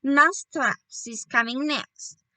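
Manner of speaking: a mild mock witch shout, slow. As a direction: announce it as a gloating witch. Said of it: "raised her voice louder than ever and shouted".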